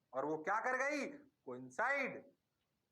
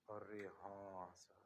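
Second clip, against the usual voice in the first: slow, much lower student voice; student answering the teacher, slow and much lower; mock student; 10 semitones lower, 12 dB quieter, much slower than usual. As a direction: drag it out like a dazed student.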